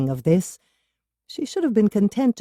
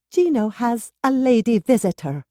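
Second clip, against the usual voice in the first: disgruntled; 6 semitones higher than usual. A narrator's reading. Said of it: "Did she sound disgruntled?".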